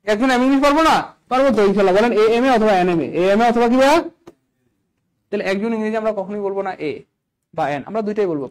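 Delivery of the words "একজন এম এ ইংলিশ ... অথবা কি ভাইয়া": urging. Real, not acted. Teacher urges class to answer.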